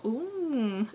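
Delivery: soft, strained "ooh"; mock attempt to hold in a cry; imitating someone swallowing tears; holding back tears. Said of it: "trying so hard not to cry".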